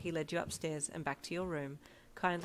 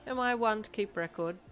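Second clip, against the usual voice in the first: louder, higher, cheeky comeback; smirking reply; 6 semitones higher, 6 dB louder than usual. A narrator's reading. Tansy dodging his brother's champagne question, smirking reply. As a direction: brush it off with a smirk. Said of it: "replied with a smirk".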